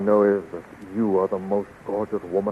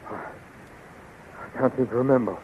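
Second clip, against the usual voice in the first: very slow, softer, foggy; drugged daze; 8 dB quieter, much slower than usual. Acted. Drugged Flash trying to remember, slow and foggy. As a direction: grope for a lost memory.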